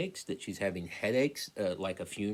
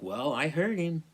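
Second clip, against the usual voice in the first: insistent; 7 semitones higher, 4 dB louder than usual. Retold or imitated. Insisting to a colleague.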